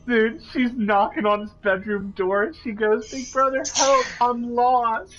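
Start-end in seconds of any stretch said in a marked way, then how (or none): 3.1-5.1 high, drawn-out wail for help; hammed-up damsel plea; helpless stepsister. Stepsister at her stepbrother's bedroom door, high mock helplessness.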